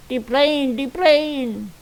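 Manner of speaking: high, clipped "de plane" call; Hervé Villechaize impression. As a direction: shout "de plane" like Tattoo. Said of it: "Rumpelstiltskin was played by Hervé Villechaize".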